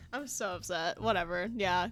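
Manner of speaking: hammed-up huffy complaint; mock upset. Mock upset, getting louder.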